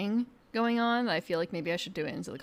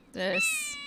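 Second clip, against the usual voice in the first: squeaky high. Acted.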